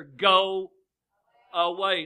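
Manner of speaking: loud, sharp shout at the door; preacher acts out shouting away a visitor. Retold or imitated. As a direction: yell it to send them off. Voicing someone refusing to answer the door.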